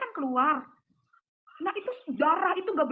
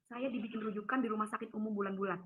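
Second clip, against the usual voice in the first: ordinary delivery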